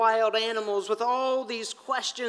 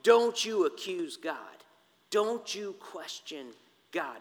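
firm, measured warning, slowing at the end; stern warning; 3 semitones lower than usual. Acted. Fourth friend warning Job not to question God, stern. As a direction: warn sternly, slow and low-key. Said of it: "gives Job this really strong warning".

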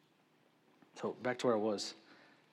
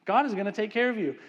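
much higher and louder frustrated yell; exasperated shout; 9 semitones higher, 9 dB louder than usual. Retold or imitated. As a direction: scold them at full volume, fed up.

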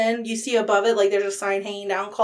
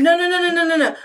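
higher, louder no no no; emphatic denial; 7 semitones higher, 4 dB louder, much faster than usual. Real, not acted. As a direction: shut the guess down fast. Quickly correcting brothel guess.

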